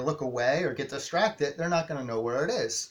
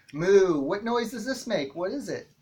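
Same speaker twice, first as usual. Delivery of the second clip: higher, louder, slow "Moo" question; teacher to toddler; 4 semitones higher, 4 dB louder than usual. Shown as a demonstration. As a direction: ask brightly, slowly, like a playful teacher. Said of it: "puppet reading demo".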